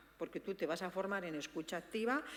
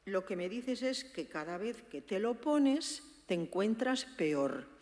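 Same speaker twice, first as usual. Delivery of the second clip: empathic, level tone. Shown as a demonstration. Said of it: "tampoco le dice".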